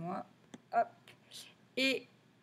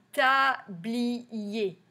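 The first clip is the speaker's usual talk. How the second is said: tablier in three even beats, usual pitch; syllable by syllable. Shown as a demonstration. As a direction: count out TA, BLI, ER. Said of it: "dans le troisième".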